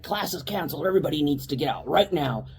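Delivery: imitating an urgent, no-nonsense captain; serious, stern order. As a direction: clear the room with firm authority. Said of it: "serious and stern".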